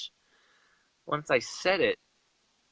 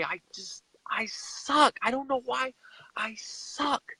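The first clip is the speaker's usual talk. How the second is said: high, breathless whisper of self-blame; a retold whisper, higher than his usual voice; whispered despair; 13 semitones higher, slower than usual. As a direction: whisper it like you're breaking inside. Retold despair after slamming cupboard.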